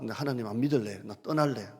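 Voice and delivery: hammed-up quitting in anger; a lightly acted outburst of giving up on God; mock defiance. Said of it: "이 말투가".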